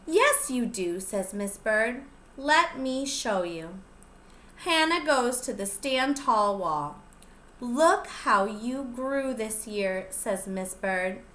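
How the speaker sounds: lively storybook reading; picture book read-aloud voice; reading to children. Acted. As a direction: read it out to the little ones, bright and clear. Teacher reads picture book aloud.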